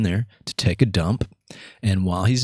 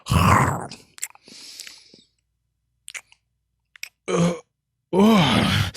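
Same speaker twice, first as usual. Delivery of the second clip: mock groan after a bad bite; imitating a man hit by a nasty taste; imitated pained groan; 9 semitones higher than usual. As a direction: let out a strangled, choked "uh". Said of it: "he just lets out this".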